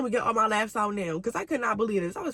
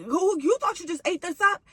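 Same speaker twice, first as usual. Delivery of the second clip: mocking taunt; 7 semitones higher than usual. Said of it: "I'm getting mad".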